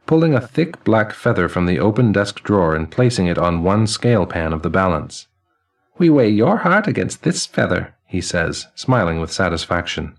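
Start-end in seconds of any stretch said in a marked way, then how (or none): 6.0-8.0 put-on high, ringing elderly man's voice; chiming old man. Elderly man greeting the newly dead, high and chiming. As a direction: chime each word like silver cymbals and laughter.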